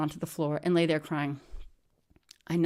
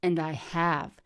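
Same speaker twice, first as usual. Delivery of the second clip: coldly; slower than usual. Retold or imitated. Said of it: "I said coldly".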